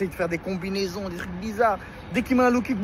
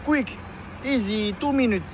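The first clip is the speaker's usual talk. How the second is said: cocky imitation; 4 semitones higher, slower than usual.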